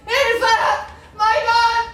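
high, desperate screaming for help, breaking into sobs; panicked cries for help. Acted. Finding the baron dead, she screams for help in panic. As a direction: scream for anyone to come.

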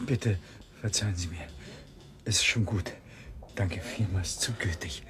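weak breathy whisper; faint whisper. Acted. Dazed man whispering thanks to the lady who caught him. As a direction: barely get the words out, spent.

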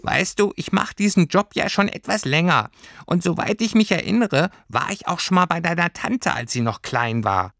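sehr hohe Figurenstimme; erkläre als erfahrenes kleines Fabelwesen; altkluges Pelztierchen. A narrator's reading. (hohes, wichtiges Stimmchen)

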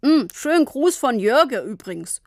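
a dad munching and mumbling; mumbling while eating. Acted. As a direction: mouth full of biscuits. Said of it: "Papa aß Kekse und nuschelte".

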